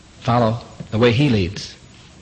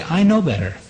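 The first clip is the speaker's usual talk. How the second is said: raised, insistent "I know better"; "know" pitched up high and falling, proud sheep talking back; smug retort; 6 semitones higher than usual. Retold or imitated. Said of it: "we say".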